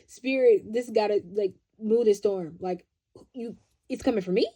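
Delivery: comic loud freak-out, speeding up; mock panicked refusal. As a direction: play the coward begging the storm away. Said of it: "the rest of us are like".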